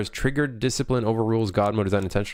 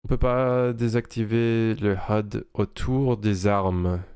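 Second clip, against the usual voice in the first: French accent; slower than usual. Shown as a demonstration. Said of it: "That French accent?".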